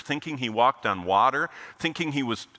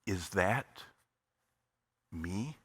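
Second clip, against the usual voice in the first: barely voiced, almost silent question; mouthed words; 4 semitones lower, 8 dB quieter, much slower than usual. Husband silently mouthing to his wife in the auditorium, almost soundless. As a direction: mouth it with no breath behind it. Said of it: "he mouthed the words".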